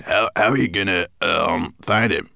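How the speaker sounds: breathless, halting climber; puffing between words; out of breath. Acted. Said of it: "gasping for breath".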